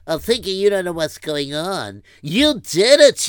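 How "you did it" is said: loud slow accusation; accusing. Acted. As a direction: hit him with the blame. Accusing confrontation.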